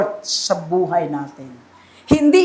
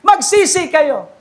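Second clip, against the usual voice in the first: imitated preaching cry; 5 semitones higher than usual. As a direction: call it out like a mild mock shout. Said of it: "sumisigaw siya". (ginagayang sigaw ng panawagan)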